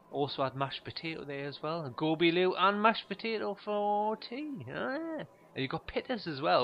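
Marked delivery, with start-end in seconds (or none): 2.0-6.6 high, loud mock shop-guy voice; nosy cashier. Cashier guessing the tea, hammed-up and high. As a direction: ham up the over-friendly cashier.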